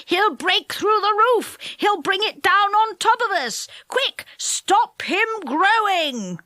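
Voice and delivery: high, alarmed pixie voices; panicked little people. A narrator's reading. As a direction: cry out in alarm. Pixies panic at growing Dick.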